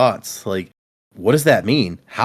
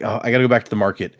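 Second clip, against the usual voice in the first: rushed excuse; much faster than usual. Retold or imitated. Hurried excuse to leave.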